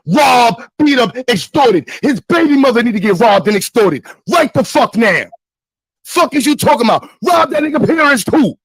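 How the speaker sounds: heated rant, punching out a list word by word; real angry Brooklyn outburst; worked-up Brooklyn anger. Real, not acted. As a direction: rant angrily, hammering each item. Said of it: "let me get my Brooklyn calm down".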